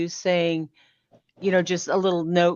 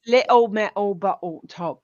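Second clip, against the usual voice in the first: mock Cockney. Shown as a demonstration. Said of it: "Like, like".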